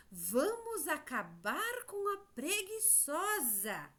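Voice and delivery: lightly acted call to action, slow and high; cicada's rallying cry. Teacher quoting a story insect for the children, lightly acted rallying cry. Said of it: "alguém disse".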